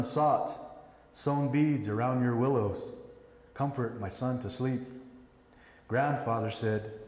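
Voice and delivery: measured poem recital with pauses after each line; poem reading. Acted. Father reading a poem for his son, measured recital. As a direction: read it line by line, giving each phrase room.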